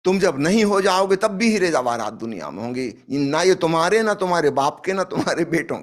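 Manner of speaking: forceful preaching. Acted. Forceful preaching about worldly wealth.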